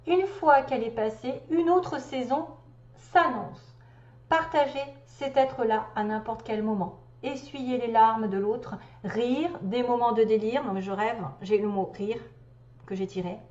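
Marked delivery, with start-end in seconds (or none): 0.1-10.6 measured, lilting recital; deliberate read-aloud cadence; reading a message aloud. Acted. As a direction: read it like a spiritual text, phrase by phrase. Reads out the message.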